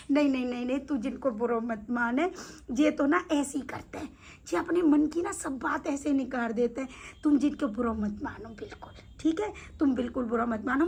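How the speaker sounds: soft, low reassurance; gentle placating. Retold or imitated. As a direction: softly talk an offended friend down. Acted soothing of the offended maid. (धीमे स्वर में प्यार से मनाना)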